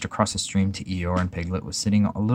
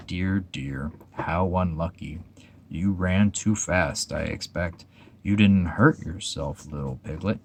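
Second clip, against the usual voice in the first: gloomy Eeyore; 3 dB quieter, slower than usual. Acted. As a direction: sigh it out like a weary donkey. Eeyore's voice in story.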